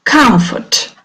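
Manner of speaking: "Comfort" with the first syllable stressed. Shown as a demonstration. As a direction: lean on the COM of "Comfort", second syllable light. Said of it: "The stress is on the first syllable".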